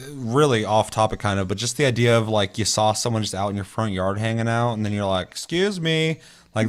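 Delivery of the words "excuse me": pitched-up, indignant excuse me; a startled homeowner confronting a stranger. Retold or imitated. Stranger in your front yard.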